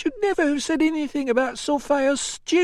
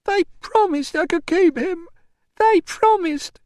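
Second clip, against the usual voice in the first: high, loud tearful wail; distraught protest; 5 dB louder than usual. Acted. Mother over a broken promise, wailing. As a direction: plead the injustice in a high cry.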